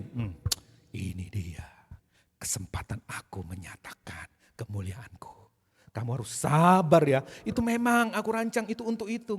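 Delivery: a hint of a sly, knowing Jesus; mocking imagined Jesus. Imagined Jesus voice, mock sarcastic.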